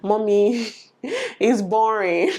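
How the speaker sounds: slow, stretched mock whine with a laugh; laughing, dragged-out imitation of a bored daughter; drawn-out child's whine. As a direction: drag it out like a bored kid, laughing. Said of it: "my daughter will tell me".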